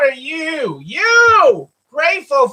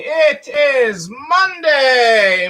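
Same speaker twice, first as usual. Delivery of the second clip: drawn-out shout; 2 semitones higher, much slower than usual. Real, not acted. Greeting viewers, drawn-out shout.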